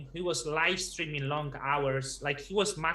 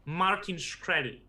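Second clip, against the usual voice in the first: name said slowly and clearly; slow down so the name is caught; careful repeat. Real, not acted. Repeats name after listener asks who.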